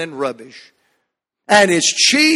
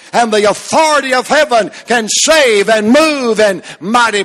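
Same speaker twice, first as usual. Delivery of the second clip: full-force preaching; 2 semitones higher than usual. Acted. Preacher to his congregation, full-force preaching. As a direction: preach it like a revival tent at full power.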